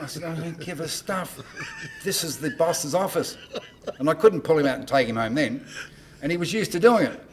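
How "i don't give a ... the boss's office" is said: slow half-laughing shout; mock rebuke. Manager rejecting the singer's excuse, half-laughing rebuke. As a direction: tell him off, laughing.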